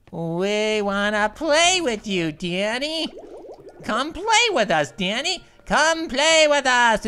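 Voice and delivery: slow, eerie mock-twin singsong; a hint of the creepy Shining twins. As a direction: lure him in like a ghost child. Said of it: "the two twin sisters are like".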